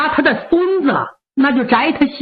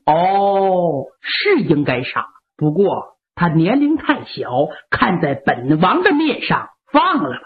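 much lower, easygoing royal voice; prince asking favor; 8 semitones lower than usual. Acted. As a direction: ask for a pardon as a favor. Prince asks for pardon.

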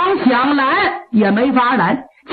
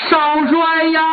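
put-on servant wails to the young marshal, crying; mournful cry; 3 semitones higher than usual. A crying call of the name. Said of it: "哭得特别痛".

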